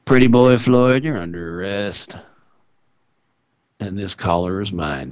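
a hint of a proud detective making an arrest; Pinkerton detective. Pinkerton agent Colton Ledbetter arresting Pretty Boy Floyd, lightly voiced lawman. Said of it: "somebody who worked for Pinkerton".

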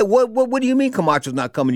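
high-pitched, stammering disbelief; retold stunned protest; incredulous. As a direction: demand an explanation, pitch jumping up. His incredulous reply to promoter.

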